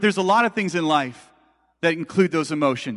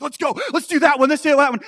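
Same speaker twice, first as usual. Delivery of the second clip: higher, louder eager begging; pumped kid brother; 8 semitones higher, 4 dB louder than usual. Retold or imitated. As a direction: bounce with eager kid excitement. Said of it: "He's, like, so pumped".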